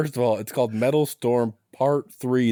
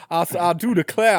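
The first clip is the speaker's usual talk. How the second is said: put-on Southern accent; 4 semitones higher than usual. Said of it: "delightful Southern accents".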